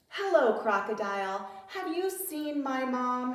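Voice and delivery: repeated question to the crocodile; little lion voice. Acted. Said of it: "asked Little Lion".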